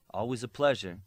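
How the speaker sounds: dry sarcastic aside; a sarcastic mutter to herself. A narrator's reading. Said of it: "said sarcastically to herself".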